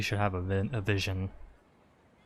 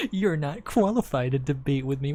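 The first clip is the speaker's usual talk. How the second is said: mock the pompous debater, pitched up; mocking mimicry; 4 semitones higher, 3 dB louder than usual. Streamer parroting a pompous game official, mocking mimicry. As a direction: scornfully parrot his boast back.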